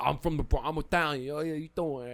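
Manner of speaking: lightly mocked New York Italian accent; a hint of New York Italian swagger; fake Italian-American. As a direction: imitate a Bronx Italian wannabe. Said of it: "the fugazi Italian people".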